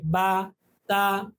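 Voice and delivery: बा, ता clipped short, not lengthened; short vowel wrong way. Shown as a demonstration. Teacher showing the wrong short reading to students. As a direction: say बा, ता quick and short as the wrong example. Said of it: "इसको बा नहीं पढ़ेंगे".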